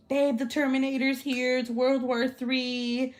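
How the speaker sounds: lightly hammed-up hysterical caller; mocking panic. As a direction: make fun of someone's overblown panic. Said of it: "He's making fun of me".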